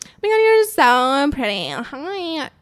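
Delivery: mock fake-sweet compliment; put-on insincere gush; sarcastic gushing. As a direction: imitate a phoney admirer, stretching the words. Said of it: "being sarcastic".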